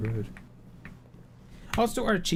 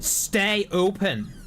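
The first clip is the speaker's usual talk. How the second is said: pleading shout; 6 semitones higher, much slower than usual. Real, not acted. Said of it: "repeated command to door".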